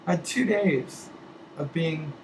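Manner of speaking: losing my voice, a little hoarse. Real, not acted. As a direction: voice going hoarse and thin. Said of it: "It's going".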